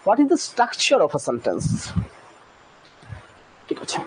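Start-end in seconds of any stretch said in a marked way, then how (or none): 0.1-1.7 very slow, each word set apart; deliberate teacher read; slow model question. Shown as a demonstration. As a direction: spell the question out for learners.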